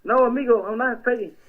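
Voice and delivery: put-on Mexican accent, lightly done. Prank caller Julio asks a pastor about mayor, Mexican accent. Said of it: "you ain't even got a good accent".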